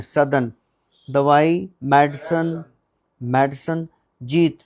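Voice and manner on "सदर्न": सदर्न as SUH-dhern, no ow; correct southern. Shown as a demonstration. Teacher correcting the class on सदर्न. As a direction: say सदर्न with a short uh, not sow. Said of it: "तो साउदर्न नहीं है".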